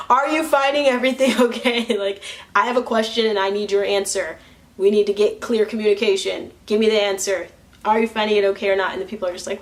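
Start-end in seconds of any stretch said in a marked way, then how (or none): 0.1-2.0 loud, forceful demand for an answer; blunt, not gentle. Acted. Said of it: "I'm not like that. I'm like". 2.0-8.9 rude-sounding bluntness. Acted. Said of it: "how to not sound rude".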